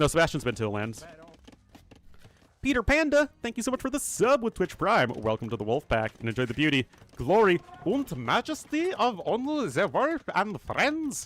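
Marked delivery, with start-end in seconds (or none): 5.1-11.3 deliberately bad German accent, slow and swooping. Streamer welcomes a new subscriber to the Wolf Pack, in a bad German accent. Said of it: "the bad German accent for a second".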